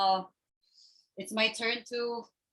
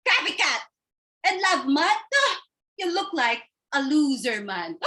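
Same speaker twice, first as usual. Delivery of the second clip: catty insult; 5 semitones higher, 3 dB louder than usual. Acted. Sisters insulting each other.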